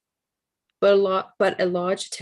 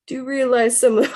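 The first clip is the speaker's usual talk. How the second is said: put-on Brooklyn accent; 7 semitones higher, 5 dB louder than usual. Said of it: "How's, how's my Brooklyn accent, guys?".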